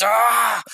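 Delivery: high anguished wail; anguished cry. Acted. Villain collapsing in despair, anguished cry. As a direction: let out a broken cry.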